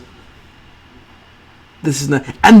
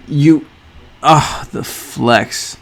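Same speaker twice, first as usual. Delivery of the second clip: ordinary talk, nothing marked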